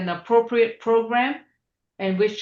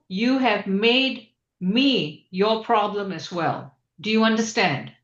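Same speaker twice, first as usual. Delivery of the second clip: slow, stern warning. Real, not acted. Judge warning defendant.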